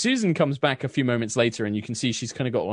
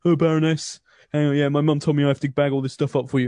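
put-on fast, louder young lad voice; young man bagging leftovers for the Baroness, fast; sulky young man; 5 semitones higher, 5 dB louder, faster than usual. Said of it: "He's like".

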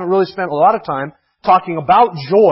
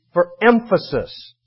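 slow repeat; slower than usual. Shown as a demonstration. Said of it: "repeat himself for emphasis".

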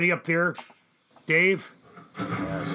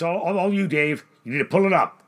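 loud call up the scaffold; 4 semitones higher, 9 dB louder than usual. Acted. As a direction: shout up to him. Calling up to scaffold.

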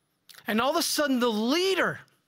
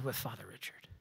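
whisper; 10 semitones lower, 16 dB quieter, faster than usual. Acted. Awed telling of terrorists' fascination.

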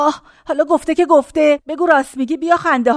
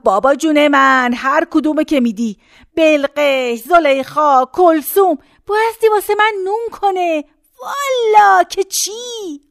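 building demand; slower than usual. Retold or imitated. Old woman retells her demand.

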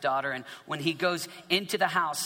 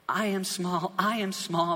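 higher-pitched, acted humility; humbled smallness; 5 semitones higher than usual. Preacher voices man before God, high and humbled.

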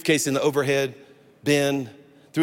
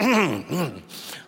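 pointed throat clearing. Retold or imitated. Traveler hinting at an armrest hog, pointed throat clearing. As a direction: clear your throat as code for "bro". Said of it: "So I just went".

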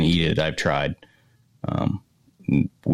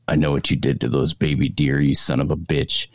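prank-call accuser; 4 semitones lower than usual. Retold or imitated. Prankster phoning a buddy about the baby deer, low mock accusation. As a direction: imitate a low-voiced anonymous caller.

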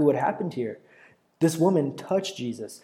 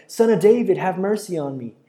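raised, loud plea, falling off; crying out more; 4 semitones higher, 5 dB louder than usual. Acted. Rebuked blind beggar calls to Jesus, crying out more. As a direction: cry out over those hushing you. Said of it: "cried out even all the more".

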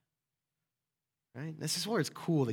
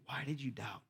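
gentle question; 3 semitones lower, 10 dB quieter than usual. Acted. Jesus' gentle question repeated.

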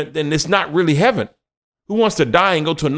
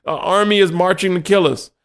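begging; 5 semitones higher than usual. Retold or imitated. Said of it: "They're begging".

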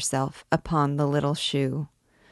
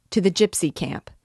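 rallying shout; 2 semitones higher, 3 dB louder than usual. A narrator's reading.

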